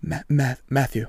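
imitating a shaken, halting stutter; retold stammer of someone in shock. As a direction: struggle to get the name out, haltingly. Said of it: "he's, like, shaking".

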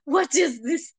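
high, squeaky what-the-heck disbelief; shocked disbelief. Retold or imitated. Fan blurting out shock at the scene, squeaking high. Reacting to emotional scene, crying.

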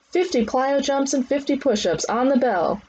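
high, projected commands; trainer's drill calls. Acted. Trainer calling leg drills on bell, high commands. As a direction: drive the class into the next round.

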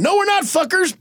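high-pitched flung taunt; mock jeer. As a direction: jeer in passing, hammed up. Superman jeering as he flies by.

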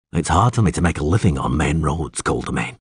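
low-pitched, understated witcher voice; dry witcher. Acted. Witcher explaining his route to the alderman, dry. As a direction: answer low and matter-of-fact.

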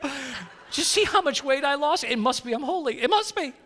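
a hint of a vain man bragging about fasting; mock holy show-off. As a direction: parody a preening self-righteous believer. Mocking a showy self-righteous faster.

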